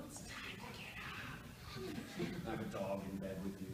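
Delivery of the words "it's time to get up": slow, high eerie whisper; creepy whisper. Pretend. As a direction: whisper like a floating head. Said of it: "I wake them up in the morning".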